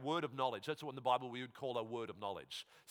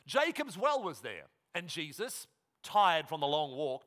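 raised, projected Bible reading; scripture reading; 5 semitones higher, 4 dB louder than usual. Acted. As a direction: read the story out loud and clear to the room.

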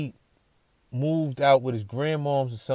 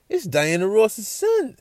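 stunned realisation; 10 semitones higher, 5 dB louder, slower than usual. Retold or imitated. Realising who the man is.

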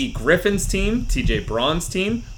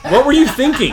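loud; 9 semitones higher, 7 dB louder than usual. Pretend. Hosting roast segment.

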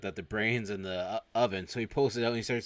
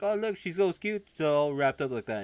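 high, loud gushing; cooing over a pet; 7 semitones higher, 7 dB louder than usual. Retold or imitated. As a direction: imitate a realtor fussing over a cute pet. Realtor gushes over supposed cat.

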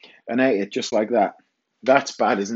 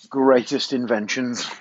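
ordinary delivery

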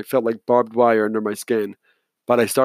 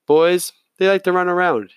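weary sigh in the words, higher; 7 semitones higher, 3 dB louder than usual. A narrator's reading. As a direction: sigh it out, mildly put-upon. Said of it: "he said, sighing".

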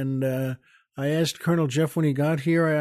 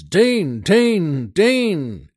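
soldier shouting; 3 semitones higher, 5 dB louder, much slower than usual. Acted. Soldiers calling under fire.

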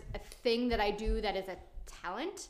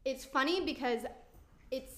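halting, with gaps mid-thought; stuttering; 3 semitones higher than usual. Real, not acted. Guest trying to be nice about celebrity crushes, stuttering. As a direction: stumble and stall while picking careful words. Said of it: "oh my God, I'm stuttering on this".

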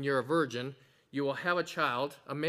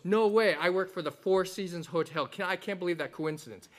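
excited exclamation; 2 semitones higher than usual. Acted. Third father exclaims in joke.

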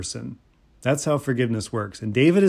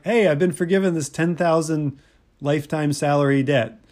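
a touch of glee, pitched a little higher; mildly happy retelling; 3 semitones higher than usual. Retold or imitated. Forgiven servant out in the street, mildly happy. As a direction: lightly voice a relieved debtor's happiness. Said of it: "real happy. He's like".

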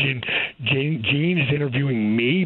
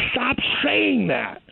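higher, drawn-out exclamation; stern retold command; 9 semitones higher, much slower than usual. Retelling how he stopped his friend's self-insults, stern. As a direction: cut in firmly, stretching the words.

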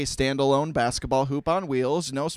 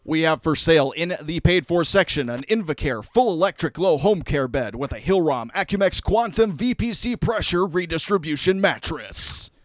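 louder, smooth announcer read; radio voice; 4 dB louder than usual. Acted. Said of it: "Gotta get my big boy radio voice on".

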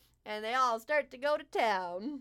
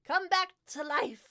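grand fey king; slower than usual. Acted. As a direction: announce it like a ringmaster king. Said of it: "he smiles towards you all".

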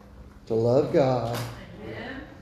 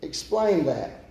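calling out to stop; 6 semitones higher, faster than usual. Pretend. Student interrupting to ask.

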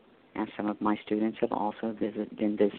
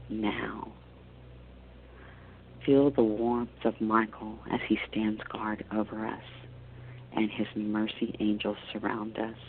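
guided meditation. Acted. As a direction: guide them gently into calm.

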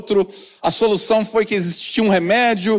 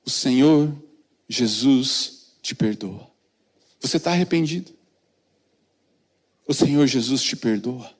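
low, softer comforting words; hushed pastoral comfort; tender reassurance; 9 semitones lower, 3 dB quieter than usual. Retold or imitated. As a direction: gently reassure a repentant woman. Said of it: "Eu olhei pra ela e falei".

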